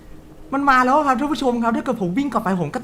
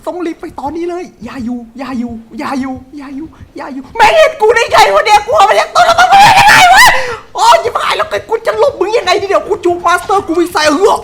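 high, loud laughing scream of terror; shriek, half laughing, half crying in fright; screaming panic; 8 semitones higher, 9 dB louder than usual. Real, not acted. Player shrieking as the killer finds him.

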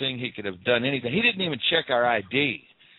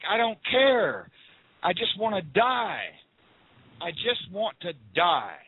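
higher, drawn-out retold anguish; wailing the words a little, no real sobs; retold crying despair; 4 semitones higher than usual. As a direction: plead it slowly, as if reliving despair. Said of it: "down a one-way street crying".

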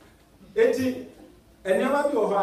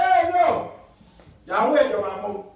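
mock outburst; 4 semitones higher, 7 dB louder than usual. Preacher acting out a startled reaction.

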